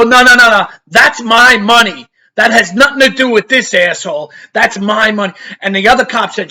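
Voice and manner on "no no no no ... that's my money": insistent protest. Retold or imitated. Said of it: "I go".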